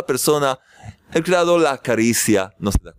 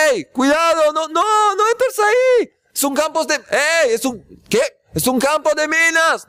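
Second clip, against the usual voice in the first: shouting a warning; 12 semitones higher than usual. Retold or imitated. Man warns a stranger near a minefield, shouting. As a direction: yell to stop a deaf man walking into danger. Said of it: "Y le gritas".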